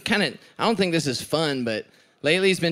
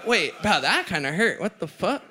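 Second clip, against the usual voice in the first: laughing mock protest; 3 semitones higher than usual. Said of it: "I'm like".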